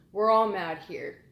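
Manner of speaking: chuckling Cheshire Cat. Retold or imitated. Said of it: "he starts to kinda chuckle".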